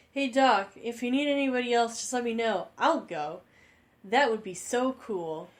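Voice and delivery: a starry-eyed student volunteering; eager kid voice. Acted. A student begging to come along in a high kid voice.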